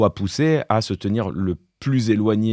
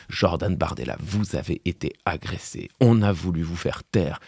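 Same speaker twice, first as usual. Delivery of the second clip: lower, softer mock-solemn news voice; grave affected anchor voice; 4 semitones lower, 5 dB quieter than usual. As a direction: ham up the anchor's sinister gravity. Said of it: "avec sa voix grave, empruntée, sinistre, affectée".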